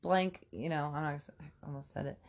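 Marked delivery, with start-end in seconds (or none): 0.0-0.4 higher, slow mock confrontation; retold pissed-off demand. Storming back to the guys for the hurt girl, re-enacted anger. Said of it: "and I'm pissed".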